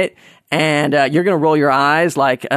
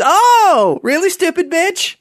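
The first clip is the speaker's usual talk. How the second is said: sarcastic retort; 14 semitones higher, slower than usual. Acted. Comedian mocking ham and cleaver, high sarcastic sneer.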